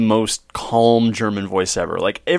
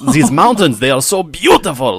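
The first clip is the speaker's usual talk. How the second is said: mock loud German; 2 semitones higher, 4 dB louder than usual. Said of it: "spouting it out as loud as he could".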